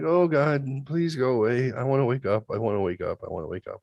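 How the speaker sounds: begging that sinks to a near-whisper; desperate plea trailing off to almost nothing; fading plea. Retold or imitated. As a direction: pray to wake up, voice dying away. Praying to wake from paralysis.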